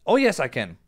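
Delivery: normal talking voice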